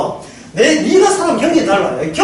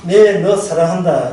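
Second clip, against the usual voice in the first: husband's words; 6 semitones lower, slower than usual. Retold or imitated. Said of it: "남편이 이야기한다".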